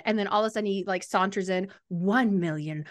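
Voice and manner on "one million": slow, deliberate recitation of the number; slow exact count. Retold or imitated. Reader voicing Aiden's smug count, slow and deliberate. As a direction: spell out each number like a know-it-all.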